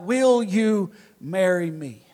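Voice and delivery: halting, with each word drawn out; struggling to get out. Retold or imitated. Suitor finally getting the proposal out to his girlfriend, haltingly. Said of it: "I finally got the words out".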